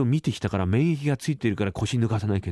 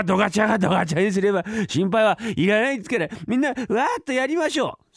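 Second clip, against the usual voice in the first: a sly clerk who promises to fudge the books, getting giddier; cocky head clerk; 3 semitones higher than usual. Acted. Head clerk rallies the servants, cocky and giddy.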